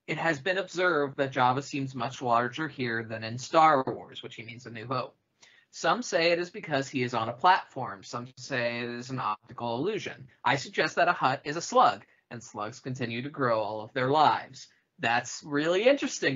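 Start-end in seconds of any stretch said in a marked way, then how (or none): 0.1-4.2 measured, expressive read-aloud; podcast host reading a critic's review aloud, lively narration. Acted. Reading Roger Ebert's review to co-hosts, animated read-aloud. 5.7-14.7 measured, expressive read-aloud; podcast host reading a critic's review aloud, lively narration. Acted. Reading Roger Ebert's review to co-hosts, animated read-aloud.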